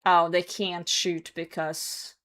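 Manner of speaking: ordinary talk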